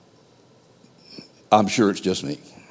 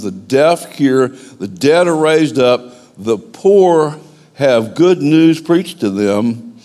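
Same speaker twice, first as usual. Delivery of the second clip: scripture reading; slower than usual. Acted. Reads Jesus' words as scripture.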